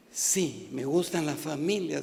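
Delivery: a hint of a divine voice, low and soft; the Lord. The Lord answering the preacher, low and soft. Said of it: "me decía el Señor".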